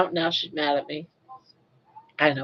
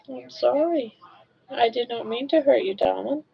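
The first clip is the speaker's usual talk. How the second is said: high, tender apology; sorry to the dog; 4 semitones higher than usual. Real, not acted. Owner soothing her hurt dog, high and tender. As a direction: coo an apology to a startled pet.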